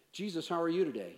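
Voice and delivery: brisk, breezy greeting; quick casual question. Pretend. Man greeting Jesus with small talk, quick and casual.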